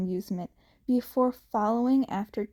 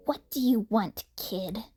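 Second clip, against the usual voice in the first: a touch of irritation, dropping off at the end; snapped. A narrator's reading. The man brushes off the boy, curtly. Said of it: "he snapped".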